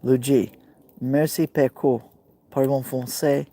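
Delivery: French spoken with a Brooklyn accent. Real, not acted. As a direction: speak French like a Brooklyn native. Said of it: "French being spoken with that Brooklyn accent".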